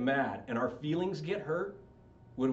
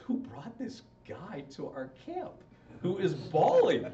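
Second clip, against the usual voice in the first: slow, drawn-out incredulity, swelling on the end; hammed-up exasperation; mock disbelief; 2 semitones higher, slower than usual. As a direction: complain slowly about the crybaby. Campers' disgusted reaction, acted out.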